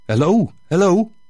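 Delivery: tentative call from the priest. Acted. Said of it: "Ineens hoorde ik een stem".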